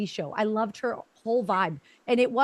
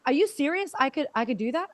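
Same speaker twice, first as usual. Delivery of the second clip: higher, hopeful, rising question on serious; lit-up disbelief; 3 semitones higher than usual. Retold or imitated. Delighted client asks the coach if she really can, surprised. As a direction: ask it lit up, unable to believe it. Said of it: "she lit up".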